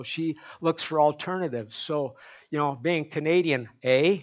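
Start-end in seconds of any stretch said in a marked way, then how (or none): 2.8-4.2 Canadian eh. Shown as a demonstration. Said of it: "that's the way they say it in Canada".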